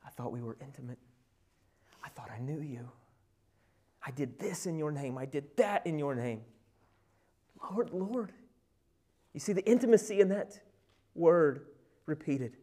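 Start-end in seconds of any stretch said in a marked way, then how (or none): 0.1-8.3 hushed plea. Acted. False believers pleading to Lord.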